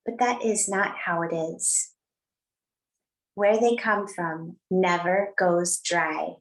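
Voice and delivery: measured, slowed reading of a Rumi poem; unhurried poetic reading with lingering phrases; poem recitation. Acted. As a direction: read the verse gently to the class. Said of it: "I'd like to share a quote today from Rumi, or a poem".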